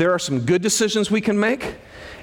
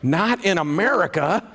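scoffing laugh. Retold or imitated. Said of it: "hear that verse and go".

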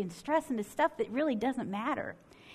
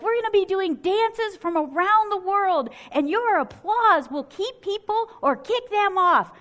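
a higher, louder game-show announcer voice; show host; 8 semitones higher, 5 dB louder than usual. Retold or imitated. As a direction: boom it out like the emcee on stage.

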